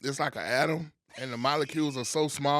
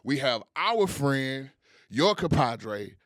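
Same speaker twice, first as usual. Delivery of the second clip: hype man intro; 3 semitones higher than usual. Acted. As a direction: hype up the guest like a showman. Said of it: "That's a lot of energy".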